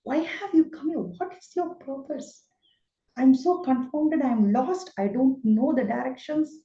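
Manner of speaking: a frightened, confused Arjuna begging God to explain; Arjuna bewildered. Retold or imitated. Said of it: "And he says".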